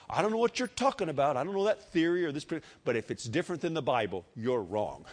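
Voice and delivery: high, emphatic opening dropping to a settled verdict; utmost confidence. Acted. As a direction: dismiss the doubter with total assurance. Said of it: "You can say that with utmost confidence".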